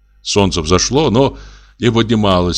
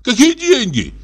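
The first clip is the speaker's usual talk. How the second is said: very high-pitched outraged question; shrieky protest without much added volume; indignant cry. A narrator's reading. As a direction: cry it out as if jumping up. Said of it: "закричал он, вскакивая".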